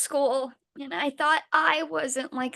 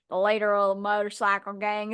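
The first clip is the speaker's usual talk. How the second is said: gruff biker voice; 3 semitones lower than usual. Retold or imitated. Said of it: "as soon as I do the fucking voice".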